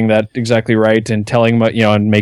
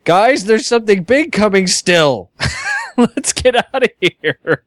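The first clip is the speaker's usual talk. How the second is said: in-character urgency; 10 semitones higher than usual. Acted. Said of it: "Mithrin would like to ... say".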